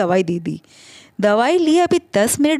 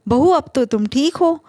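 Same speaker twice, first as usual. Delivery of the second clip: mimicking mother-in-law; 4 semitones higher than usual. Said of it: "आप भी तो ... पूछती रहती".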